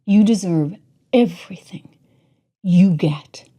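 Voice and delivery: slow, hissed contempt under the breath; contemptuous whisper. Real, not acted. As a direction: whisper the insult like a curse. Spits insult at clip speakers.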